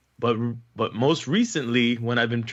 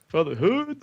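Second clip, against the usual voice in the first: a deep-voiced singer's voice; 6 semitones higher than usual. Shown as a demonstration. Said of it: "that's my sweet and sexy voice".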